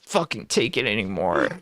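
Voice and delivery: put-on whine, mock despair; fake whiny voice. Co-host mocking the streamer nearly crying, fake whiny voice. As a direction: whimper it like a fake cry. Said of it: "that fake, like, whiny voice".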